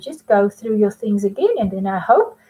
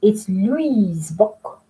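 wrong form; much slower than usual. Shown as a demonstration. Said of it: "but I can't say it like that".

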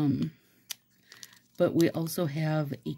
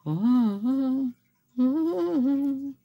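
high, sing-song princess calling oh; Disney princess call; 10 semitones higher, 4 dB louder, much slower than usual. Retold or imitated. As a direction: coo to the critters like a cartoon princess. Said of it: "Disney princess".

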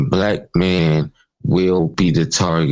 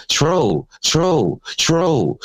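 high, sing-song sneer; mock them from way up; taunting; 10 semitones higher, much slower than usual. Real, not acted. Taunting the trolls.

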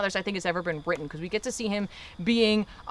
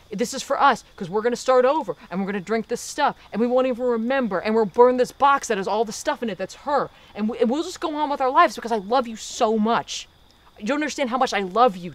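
lightly urgent, raised plea; mild pleading; 4 semitones higher, 4 dB louder than usual. Retold or imitated. Wife urging her husband to start over, mild pleading. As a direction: plead with a touch of insistence.

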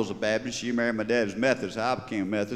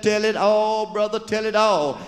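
high, slow chant of encouragement; revival preacher; 9 semitones higher, 3 dB louder, slower than usual. Acted. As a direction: draw the confession out, slowly.

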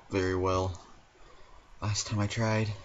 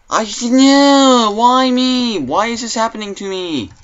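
much higher, much louder anguished yell; despairing scream; 13 semitones higher, 14 dB louder than usual. Real, not acted. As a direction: scream out in despair as it all goes wrong. Dies, losing progress, screams.

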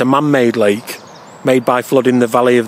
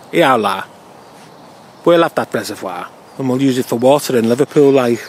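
put-on Liverpool Scouse accent, casual and cheeky. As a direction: voice the engineer as a Scouse lad. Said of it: "He probably didn't talk in a Scouse accent".

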